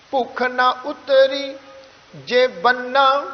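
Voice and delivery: slow, measured Gurbani reading; scripture recitation. Shown as a demonstration. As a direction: recite on a level tone, phrase by phrase. Recites the verse. (Gurbani ਦਾ ਸਹਿਜ ਪਾਠ)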